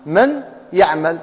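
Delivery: من يعمل slow with a nasal hum on the ya; slow demo with ghunna. Shown as a demonstration. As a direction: hum through "miyyaʕmal". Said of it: "كي تسمع الغنة". (من يعمل بالغنة ببطء)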